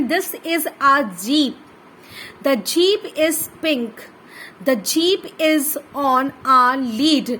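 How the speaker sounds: put-on very slow, word by word, like dictating to a child; slow reading aloud for children. Shown as a demonstration. Teacher reading sentences for kids to copy, slow and clear. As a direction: read each word out carefully and slowly.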